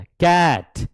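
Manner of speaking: कैट with a stretched æ; long vowel cat. Shown as a demonstration. Teacher models कैट with a long vowel. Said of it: "long बोलो थोड़ा".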